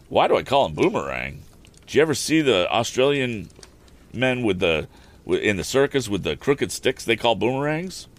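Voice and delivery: a rustic carter explaining himself, lightly put on; rambling wagon driver.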